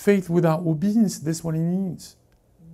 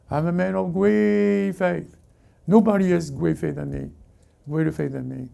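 mock boaster. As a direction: puff it up lazily, drawing out the brag. Mocks boaster standing still.

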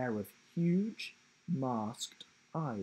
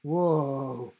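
loud startled exclamation; surprised whoa; 6 dB louder than usual. A narrator's reading. Will seeing his new coat, loud and startled. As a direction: blurt it out, startled. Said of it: "he exclaimed".

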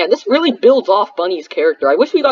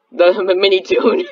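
chuckling through "Minitoon" with a stumble; laughing. Real, not acted. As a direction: laugh while getting the name out.

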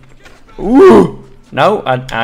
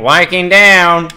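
slow, drawn-out, louder Viking down; called-out alert; 3 semitones higher, 4 dB louder than usual. Real, not acted. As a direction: call it across the battlefield. Calling out a fallen Viking.

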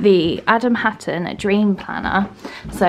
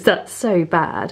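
out of breath; much slower than usual. Real, not acted. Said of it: "I'm really out of breath".

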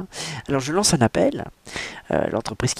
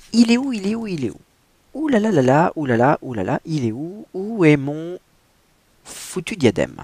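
frantic character voice; 5 semitones higher than usual. Acted. Reading the book aloud, a high, frantic heroine. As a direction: voice the heroine hunting for her lost tiara. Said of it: "quelqu'un qui bégaye".

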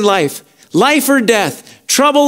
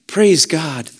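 usual speaking voice

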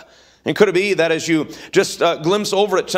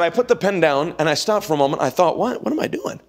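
dad's voice. Retold or imitated. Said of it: "That's how he would talk".

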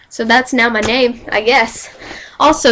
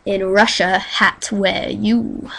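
put-on slow, low joke Russian accent; put-on Russian voice, lower and drawn out; mock Russian accent; 3 semitones lower, 3 dB quieter, slower than usual.

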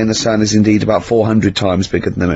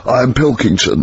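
a lightly voiced, slowed, pompous head in a fish tank; a hint of a self-important ruler's voice; Pilkington as world ruler. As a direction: announce yourself grandly as king of the universe, only slightly put on. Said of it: "And he speaks like this".

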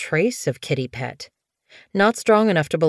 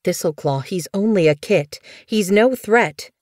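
pleading; 3 semitones higher than usual. Acted. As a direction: plead for the kit, stressing the last words. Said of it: "Blue Fur pleaded".

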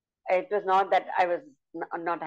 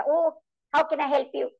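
high squeaky little mouse voice; a storyteller's high, eager little mouse; 8 semitones higher than usual. Shown as a demonstration. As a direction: pipe it up small and sweet like a tiny mouse. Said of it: "I did it with the voice modulations".

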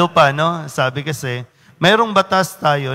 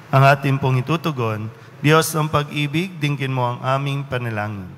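measured, even-toned call to prayer; liturgical prayer. Real, not acted. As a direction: lead the congregation formally into prayer. Leads the prayer of the faithful. (pormal na pangunguna sa panalangin)

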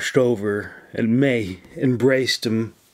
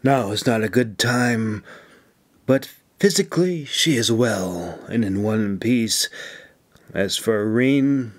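reassuring. Acted. Officer gently reassuring a friend about the injured women. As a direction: soothe his fears about his friends. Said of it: "she assured him".

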